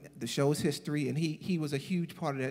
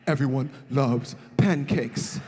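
Mooney's slow jab; 5 semitones lower, slower than usual. Retold or imitated. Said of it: "they called him Pancake Homie".

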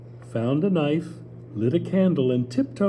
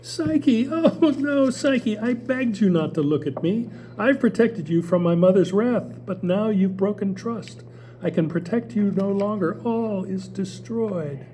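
heartbroken reproach, trailing into loss; sorrowful Eros; 7 semitones higher than usual. Acted. Eros grieving Psyche's betrayal.

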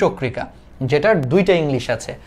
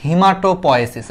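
slow teaching; 2 semitones higher, slower than usual. Shown as a demonstration. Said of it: "এই হিম থেকে নাম আসছে".

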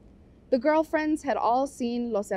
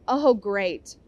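louder, fed-up complaint; complaining; 6 dB louder, slower than usual. Acted. Vampi to her friends about the trip, a louder fed-up complaint. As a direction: groan it out like the week is ruined. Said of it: "Vampi complained".

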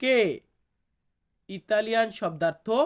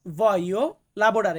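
voglio lavorare repeated very slowly and clearly; 3 dB louder, much slower than usual. Shown as a demonstration. Teacher repeating voglio lavorare slowly for viewers. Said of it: "আমাকে বলতে হবে".

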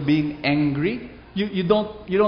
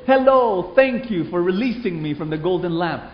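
genie voice; 3 semitones higher, 3 dB louder than usual. Acted. Genie greets the woman.

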